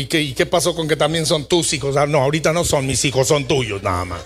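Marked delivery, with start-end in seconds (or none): 2.0-4.2 wife's voice. Retold or imitated. Mocking wife's reply.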